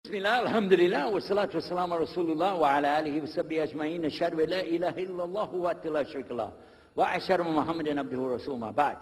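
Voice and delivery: fast, formulaic opening recitation; brisk ritual preamble; rapid Arabic invocation. Real, not acted. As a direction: run through the Arabic opening praise quickly.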